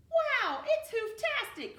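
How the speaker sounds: high, loud burst of joy; thrilled cry. Acted. Cornelius hearing DJ Salad's new track, high and thrilled. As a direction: gasp with pure delight. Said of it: "Cornelius said".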